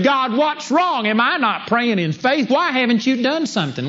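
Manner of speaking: mock a frustrated believer's complaint; frustrated prayer. Believer praying for a loved one, frustrated and pleading. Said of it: "you are frustrated".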